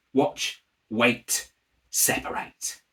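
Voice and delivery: breathy magic whisper; whispered incantation. Acted. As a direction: whisper each word like a spell. Magic incantation over the cards.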